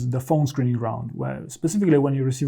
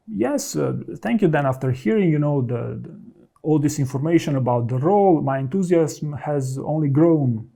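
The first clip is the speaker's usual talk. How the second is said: enthusiastic thanks. Shown as a demonstration. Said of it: "you could also say something like".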